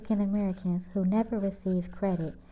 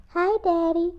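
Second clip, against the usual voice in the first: high, louder sweet greeting; loving daughter greeting dad; lovingly; 9 semitones higher, 5 dB louder than usual. A narrator's reading. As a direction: melt into a hug for her father. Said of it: "she said very lovingly".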